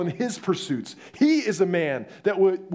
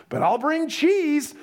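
grudging David; 10 semitones higher, 3 dB louder, slower than usual. Retold or imitated. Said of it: "He's like".

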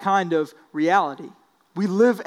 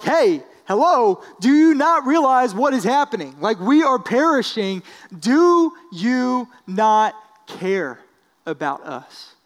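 louder, pleading disciples in a storm; urgent, rising panic, pushing the words out; frightened disciples begging a sleeping Jesus to wake; panicked plea; 3 semitones higher, 3 dB louder than usual. Retold or imitated.

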